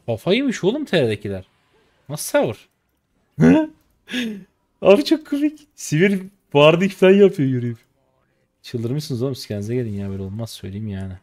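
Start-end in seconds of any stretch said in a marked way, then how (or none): 3.4-7.8 much higher and louder, laughing through the words; really cracking up; loud burst of laughter. Real, not acted. Streamer laughing hard at the enemy's silly walk.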